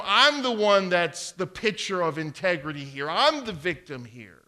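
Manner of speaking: mock protest of wounded innocence; lightly voiced victim act. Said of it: "she's the one that says".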